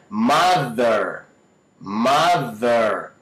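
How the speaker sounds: "Mother" with a buzzed middle TH; vibrating TH. Shown as a demonstration. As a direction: lean on the first syllable, buzz the middle of "Mother". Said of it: "Não é mother".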